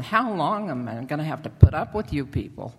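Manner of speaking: mildly fed-up teacher's complaint; a little annoyed. Retold or imitated. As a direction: voice someone losing patience, lightly. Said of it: "Jesus gets a little annoyed with them".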